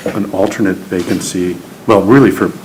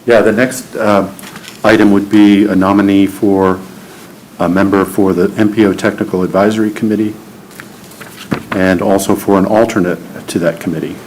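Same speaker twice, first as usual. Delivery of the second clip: raised, louder meeting voice; louder, projected after being asked; speaking up; 3 dB louder than usual. Real, not acted. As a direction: speak up so the room can hear. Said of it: "can you speak up".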